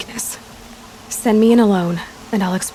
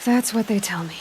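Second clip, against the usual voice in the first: whisper; 6 dB quieter than usual. Acted. Quiet wry reply to companion.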